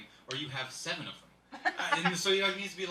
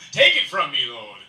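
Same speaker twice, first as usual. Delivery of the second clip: loud, pitched-up plea to God; 14 dB louder than usual. Acted. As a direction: beg the Lord loudly. Pleading with God.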